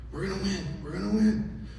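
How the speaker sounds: high, hushed, urgent chant; hushed pep talk. Retold or imitated. Dad to his son on the fairway, hushed and urgent. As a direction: urge him on under your breath.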